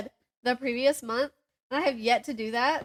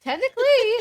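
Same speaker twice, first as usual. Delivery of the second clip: higher and louder, through a laugh; 12 semitones higher, 9 dB louder than usual. Real, not acted. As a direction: blurt it out while cracking up. Teasing banter about skipping ahead.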